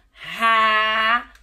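"rabanete" loud, long ra... ba... ne... te; syllable by syllable. Shown as a demonstration. Teacher showing pupils an unfamiliar word, syllable by syllable. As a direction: stretch and separate each syllable of "rabanete". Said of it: "eu não contei as sílabas".

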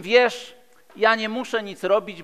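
ordinary delivery

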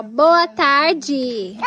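high sing-song prompt; child prompt. Shown as a demonstration. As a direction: coax a child to repeat. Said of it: "Fala assim, ó".

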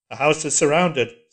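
loud cold echo; flat metallic repetition; iron voice. A narrator's reading. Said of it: "said the voice".

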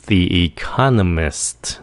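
the economists slowly, ending s-t-s; drawn-out economists with separate final S; slow, all consonants. Shown as a demonstration. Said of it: "phát âm chậm".

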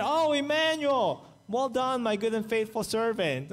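imagining Jesus' warm approval, sung out high; hoped-for praise from Jesus. Pretend. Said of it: "I'm hoping to hear".

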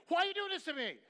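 a mild imitation of a bride near tears, pleading; tearful plea. A bride, upset by hard questions, pleads with her pastor, lightly tearful. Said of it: "got tears in her eyes".

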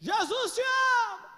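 loud, high, slow shout. Retold or imitated. Young man shouting to a stranger from the street, loud and slow. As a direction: call it out to the whole street. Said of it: "saiu lá fora assim e falou assim".

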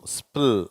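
"ஸ்பில்" as s, p, l in one sound; merged SPL. Shown as a demonstration. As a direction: join the three consonants in "ஸ்பில்". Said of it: "மூணு சேர்ந்த மாதிரி உச்சரிக்கணும்".

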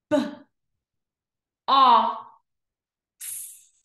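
B, o, x as separate letter sounds; long gaps between B, o and x; sounded out slowly. Shown as a demonstration. Teacher pointing to each dot, B-o-x sounded out. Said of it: "read each word slow".

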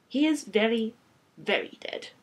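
put-on deliberate French-accented confirmation; French-accented vampire stating it carefully; rich French accent. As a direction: pause before repeating, in a French accent. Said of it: "with a rich French accent".

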